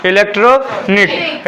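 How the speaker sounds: "इलेक्ट्रॉनिक" slowly as two chunks, electro and nik; short pause before the "nik" of "इलेक्ट्रॉनिक"; split in two. Shown as a demonstration. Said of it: "short कर लूँ तो दो में होगा". ("इलेक्ट्रॉनिक" को दो खंडों में, धीरे)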